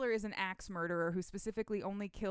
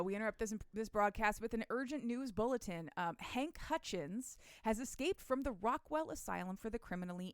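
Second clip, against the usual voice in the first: put-on old radio announcer. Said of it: "it's the radio".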